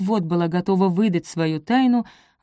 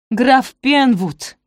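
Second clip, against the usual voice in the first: loud, slow, high cry of the name; shout; 6 semitones higher, 7 dB louder, much slower than usual. A narrator's reading. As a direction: blurt it out loud at last. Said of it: "крикнула Софи".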